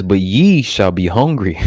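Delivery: slow, weighty King James reading; measured preacher's scripture reading; solemn scripture reading. Acted. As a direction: read the verse like holy writ. Reading scripture aloud in sermon.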